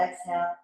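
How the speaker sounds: long hissing s on the exhale; drawn-out s like a snake. Shown as a demonstration. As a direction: breathe out on a snake's hiss. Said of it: "they'll have you exhale with the S sound".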